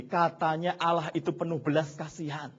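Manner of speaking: rising into a loud, high protest; Abraham's growing complaint to God; complaining to God. Retold or imitated. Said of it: "Dia berpikir gini".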